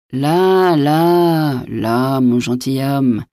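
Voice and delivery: drawn-out soothing words, stepping down in pitch; placating. A narrator's reading. Innkeeper to a threatening gentleman, soothingly placating.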